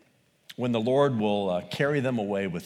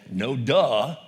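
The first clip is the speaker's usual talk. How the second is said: sarcastic retort; 3 dB louder than usual. Retold or imitated. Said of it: "as if to say".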